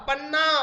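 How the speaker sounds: teacher's model पन्ना, first syllable stressed. Shown as a demonstration. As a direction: punch the पा in पन्ना. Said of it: "पा पर बलाघात होगा।".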